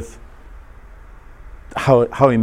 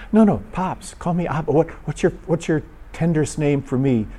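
higher, softened fatherly coaxing; acted fatherly affection; 5 semitones higher than usual. God as father asking a child for a pet name, gently coaxing.

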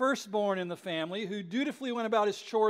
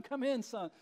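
softer, coaxing father calling his son in; gentle plea; 2 semitones higher, 6 dB quieter than usual. Retold or imitated. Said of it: "pleading with his son".

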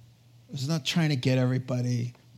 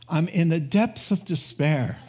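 laughing Anne quote. Retold or imitated. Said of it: "And she says".

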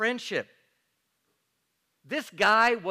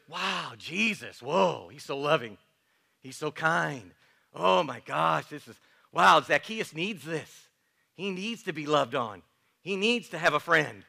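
gushing, slowed mock praise; mock admiring crowd; 2 semitones lower than usual. Imagined crowd gushing over Jesus, mock sweet. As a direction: ham up fawning admiration. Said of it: "I don't think their muttering was".

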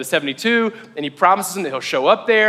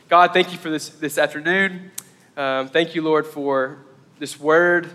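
prayer; 3 semitones lower than usual. Real, not acted. Closes with a spoken prayer.

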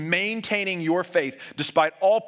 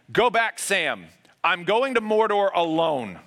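a louder, higher retold yell, slowing on the second line; 4 semitones higher, 4 dB louder, slower than usual. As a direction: call him back across the water, half acted. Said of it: "Frodo yells".

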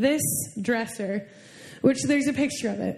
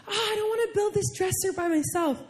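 tearful, higher-pitched complaint; almost crying; 5 semitones higher than usual. Retold or imitated. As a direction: reenact a helpless whine near tears. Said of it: "I'm almost crying right now".

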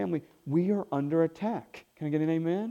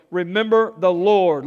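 proclaimed; 6 dB louder than usual. Shown as a demonstration. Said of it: "Look at someone and say".

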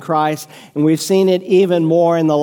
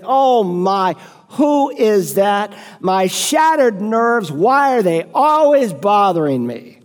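annoyed homeowner; 3 semitones higher, slower than usual. Retold or imitated. Preacher voicing a tired homeowner, mildly exasperated. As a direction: play the weary homeowner put out by the doorbell. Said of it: "and you think".

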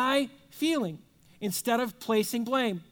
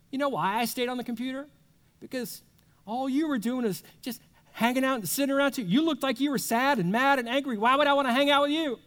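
defensive retort; 3 semitones higher, faster than usual. Retold or imitated. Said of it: "Those defenses go up".

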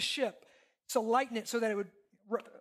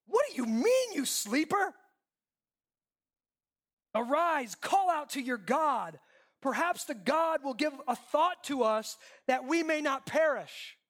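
mock stern captain; 2 semitones higher than usual. Captain scolding sleeping Jonah.

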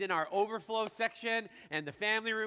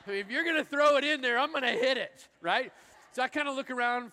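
eager excitement; 4 semitones higher, 5 dB louder than usual. Real, not acted. Excited swing at opening.

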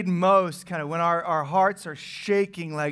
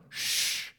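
soft shush; 6 dB quieter than usual. Retold or imitated. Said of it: "first thing God tells the prophet".

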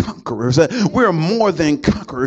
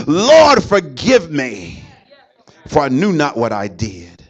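pleading prayer; 3 dB louder, slower than usual. Retold or imitated. Prayer to the Lord.

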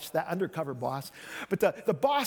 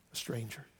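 softer, lower repeat of "A stranger."; hushed echo; 8 semitones lower, 12 dB quieter than usual. Shown as a demonstration. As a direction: drop "A stranger." to a near hush.

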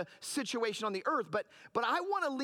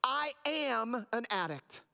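mock confession; slower than usual. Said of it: "We say things like".

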